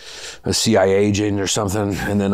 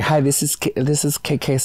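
lightly raised, mock-polite phone greeting; boss's fake receptionist voice; 5 semitones higher than usual. Boss faking a bright receptionist voice to make her one-woman company seem bigger. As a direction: play the boss inventing a cheery receptionist on the phone. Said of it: "She would create characters and be like".

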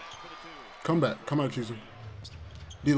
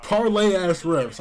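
slow angry rant; 5 semitones higher, 5 dB louder than usual. Real, not acted. Ranting at referees.

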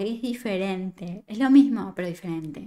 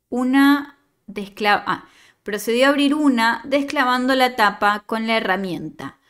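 steady storytelling read; story narration; 3 dB louder than usual. Acted. Teacher reading a student's story to the class, narrating. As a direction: read the tale out to the class, evenly.

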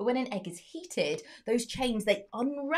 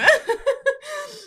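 laughing; 9 dB louder than usual. Real, not acted. Laughs at crumbling cake.

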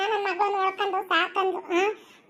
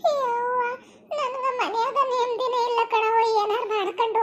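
tearful complaint; 2 semitones higher than usual. Acted. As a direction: break into a little cry on the first word. Daughter complains tearfully to mother.

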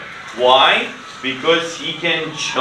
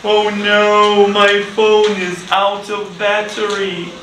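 put-on child's voice; 4 semitones higher than usual. Shown as a demonstration. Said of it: "you can say".

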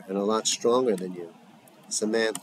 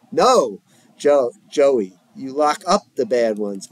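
heated shouting; 5 dB louder, slower than usual. Acted. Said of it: "the volume goes up in their next words".

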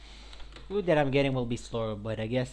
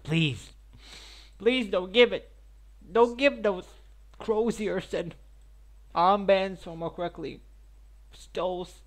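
raised, insistent mock begging; mock pleading; 4 semitones higher, 4 dB louder than usual. Streamer begs for a better item drop, mock pleading. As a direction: plead in a higher, louder voice. Acted plea to the game.

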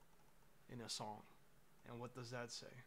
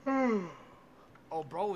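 surprised; 5 semitones higher, 13 dB louder than usual. Real, not acted. Reacting to grunting stream audio.

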